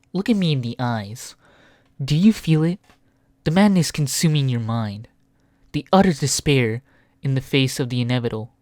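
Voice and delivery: low menacing villain. Acted. Dramatic villain line.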